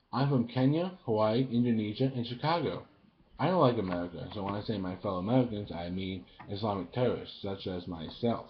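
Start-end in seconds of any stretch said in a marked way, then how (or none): 0.1-4.3 a hint of a stately president; Obama impression. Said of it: "I'm gonna do my impression of Obama". 5.7-8.5 a hint of a stately president; Obama impression. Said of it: "I'm gonna do my impression of Obama".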